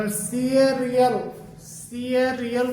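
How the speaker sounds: सीएरियल drawn out slowly as "see-e-ri-yal"; shown pronunciation. Shown as a demonstration. Teacher showing students the word, सीएरियल said slowly in syllables. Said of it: "करके बोला जाता है इसको".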